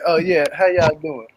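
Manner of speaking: slow, offhand mock of a grudging hello; cold, dismissive greeting. Retelling Angela snubbing the counselors, slow and cold. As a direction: imitate a greeting said with no interest, drawn out. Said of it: "she said".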